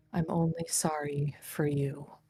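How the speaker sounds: soft, hushed whisper under the breath. Voicing a character who turns to a player: whispering. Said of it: "She looks at you and whispers and says".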